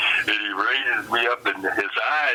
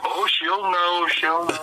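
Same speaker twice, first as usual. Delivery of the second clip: knowing dread; 7 semitones higher, slower than usual. Retold or imitated. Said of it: "Samoan answers ominously".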